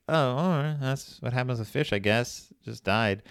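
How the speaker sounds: casual, mildly resigned acceptance; unaffected shrug. Retold or imitated. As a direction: brush it off as no big deal. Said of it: "it didn't affect me really at all".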